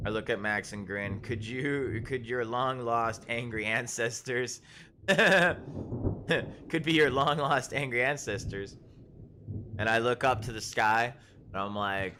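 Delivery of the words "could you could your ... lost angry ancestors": laughing through the words. Real, not acted. Player grinning at Max, laughing. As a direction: tease him while cracking up.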